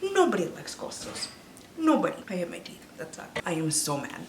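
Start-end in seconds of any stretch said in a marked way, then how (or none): 0.0-2.2 mock voice of the movie. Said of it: "the movie was like".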